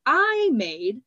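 indignant disbelief; aghast. A narrator's reading. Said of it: "Triss demanded, aghast".

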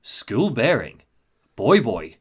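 slow, solemn alien pronouncement; grave alien. Retold or imitated. Retelling the alien's sudden grave answer. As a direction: say it like a dark omen. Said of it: "suddenly sounds very grave".

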